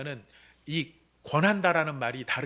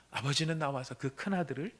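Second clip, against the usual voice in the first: softer; 6 dB quieter than usual. Shown as a demonstration. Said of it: "repeated phrase, softer take".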